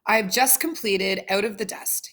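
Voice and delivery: stiff robot voice, read from notes. Acted. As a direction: speak like a robot reading a script. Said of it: "You sound like a robot".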